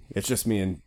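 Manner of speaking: coughing through a cold; coughing fit. Real, not acted. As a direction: cough then talk on, sick. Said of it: "Sorry about the coughing".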